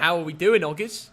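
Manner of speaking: light attempt at an Australian accent; amateur Australian accent; Aussie accent. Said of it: "do your Aussie accent".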